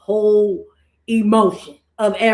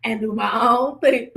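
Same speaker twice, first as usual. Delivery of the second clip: laughing impression; 3 semitones higher, 4 dB louder than usual. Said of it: "she like".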